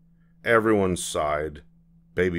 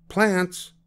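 calling out; 11 semitones higher than usual. Acted. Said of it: "she called out".

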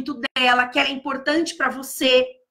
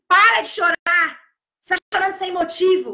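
harsh scolding; 3 semitones higher than usual. Shown as a demonstration. Teacher showing the wrong way to tell a crying child to stop, harsh scolding. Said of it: "Não é tipo assim".

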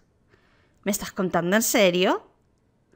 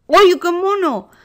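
cooing delight; 7 semitones higher, 6 dB louder than usual. Real, not acted. Cooing at a cute skin.

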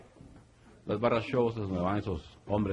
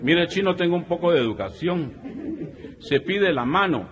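higher, indignant correction; stern father; 7 semitones higher than usual. Acted. Bride's father corrects the Chinese suitor, higher and indignant. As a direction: correct him, offended.

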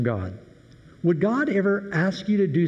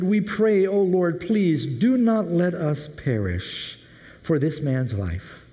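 pleading prayer; 3 semitones higher, slower than usual. Acted. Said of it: "They cried out to the Lord and said".

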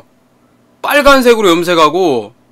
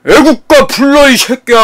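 loud, raised, slow command; thuggish classmate; 7 semitones higher, 5 dB louder than usual. Retold or imitated. Tough classmate demanding the anthem, loud and thuggish. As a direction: imitate a bully barking an order. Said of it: "목소리가 진짜 개 굵었거든".

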